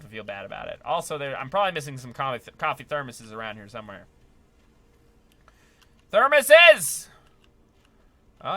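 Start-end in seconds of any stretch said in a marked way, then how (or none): 6.1-7.1 high, loud excited exclamation. Real, not acted. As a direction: cry out the find happily. Spots the item he sought.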